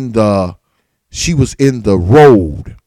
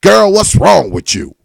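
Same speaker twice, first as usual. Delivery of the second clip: mocking the mother; 5 semitones higher than usual. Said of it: "Especially after she was like".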